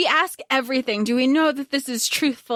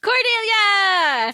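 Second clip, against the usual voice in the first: drawn-out, louder, higher gushing cry; excited cry; 8 semitones higher, 4 dB louder, much slower than usual. Real, not acted. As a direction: squeal the name like a fan. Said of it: "fan gushing".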